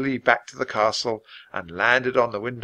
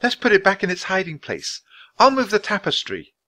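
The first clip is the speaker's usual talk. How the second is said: put-on croaking girl; 8 semitones higher than usual. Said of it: "croaked Annie".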